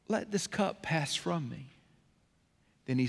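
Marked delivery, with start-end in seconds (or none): 0.1-1.7 much softer, slow request; hushed plea. Retold or imitated. Jesus begging God in Gethsemane, hushed and slow. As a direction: barely ask it.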